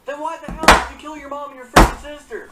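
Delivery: loud, furious demand at the killer; shouting at the killer in disbelief; outraged shout. Real, not acted. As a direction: yell it in real outrage.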